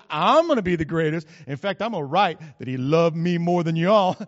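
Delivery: loud, cocky one-upping brag; boastful John. Retold or imitated. John one-ups James with a loud brag.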